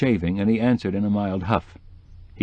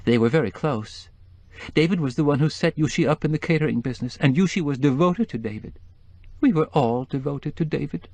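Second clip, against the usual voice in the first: high, tearful society woman; 5 semitones higher than usual. Acted. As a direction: voice the grieving wife, high. Mrs Starkweather voice.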